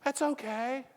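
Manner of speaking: mock-casual doubter shrugging off the point; smug audience member. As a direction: brush it off like a sceptical listener. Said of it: "you're probably saying".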